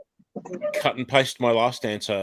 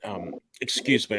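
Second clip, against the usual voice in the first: coughing; 3 semitones lower, 4 dB quieter than usual. Real, not acted. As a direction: voice roughened by coughing. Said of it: "I'm coughing again".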